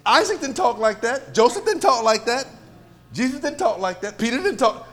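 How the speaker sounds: forceful, repetitive preacher's cadence; emphatic preaching. Real, not acted. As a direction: hammer each example home, loud and high. Preacher hammers a list of examples.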